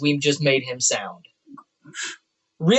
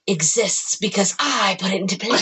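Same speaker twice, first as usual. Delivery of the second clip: dark lord; 2 semitones higher than usual. Pretend. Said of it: "She's like".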